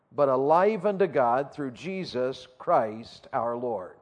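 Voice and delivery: slow, measured reading of scripture. Acted. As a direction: read the verses with weight and slow care. Reads scripture aloud.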